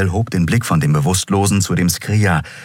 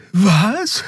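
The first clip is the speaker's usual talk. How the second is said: high-pitched, groggy question; high, sleepy little voice; drowsy confusion. A narrator's reading. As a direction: ask as if just woken. Dozing Xea wakes up confused.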